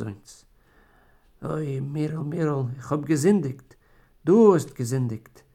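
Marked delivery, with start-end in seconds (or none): 4.2-5.4 louder, stress on du; bitter retort. Acted. Wife answers her husband's confession, loud and bitter. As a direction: throw his confession back at him.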